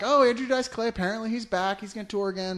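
lightly mocking a TV host; mock news anchor. Mocking CNN hosts introducing a returning comic, bright anchor voice. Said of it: "they're like".

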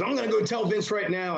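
high-pitched put-on voice; Michael Hayes impression. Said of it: "He goes".

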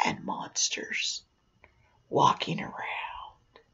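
slow, whispered storytelling; spooky hush. A narrator's reading. Storyteller revealing monsters walking around, spooky hush. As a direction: drop to a slow, eerie near-whisper. Spooky scene at haunted attraction.

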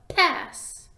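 "pass" with a loud popping p; popped p. Shown as a demonstration. Teacher popping the p for listening ears. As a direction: pop the p on "pass". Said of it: "you hear a little tiny pop".

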